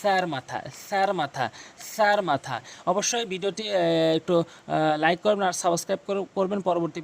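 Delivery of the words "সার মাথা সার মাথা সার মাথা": "সার" repeated with tongue tip at the teeth; correct pronunciation. Shown as a demonstration. Teacher drilling learners on tongue-to-teeth "সার". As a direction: drill "সার মাথা" with a lisped first sound. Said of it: "জিহ্বার আগা এবং দাঁতের আগার সঙ্গে".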